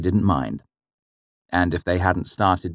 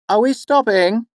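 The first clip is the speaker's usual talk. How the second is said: a higher call from inside the wagon; 5 dB louder than usual. Acted. The mother calling from inside the wagon, raised voice. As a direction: call out to be heard. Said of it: "my mother called from inside the wagon".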